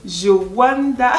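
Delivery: drawn-out, slow exclamation of amazement; astonished. Shown as a demonstration. Vlogger showing viewers a Cameroonian expression, astonished. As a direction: draw it out in mock astonishment. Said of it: "je wanda exprime l'étonnement".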